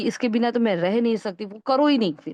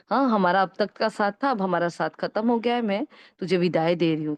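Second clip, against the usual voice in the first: lovingly. Shown as a demonstration. Teacher coaxes her old habit away, tenderly. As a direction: gently soothe the habit as you let it go. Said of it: "बहुत प्यार से उस संस्कार को बहलाओ".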